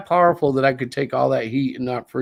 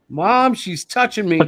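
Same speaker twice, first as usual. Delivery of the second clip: slow, slightly higher tattling whine; whiny tattling little sibling; 7 semitones higher than usual. Retold or imitated. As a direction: tattle to Mom like a kid. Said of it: "That was my favorite one growing up".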